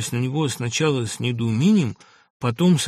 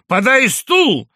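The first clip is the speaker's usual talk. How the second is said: high, drawn-out loud order; loud command; 10 semitones higher, 8 dB louder, much slower than usual. A narrator's reading. Postmaster ordering a chair, loud command. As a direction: holler the order to an underling. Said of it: "крикнул он так громко".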